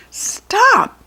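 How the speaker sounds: high, loud stop; commanding shout. Acted. Tooth Fairy stopping the goblins, loud and high. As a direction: cut them off with a command. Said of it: "she demanded".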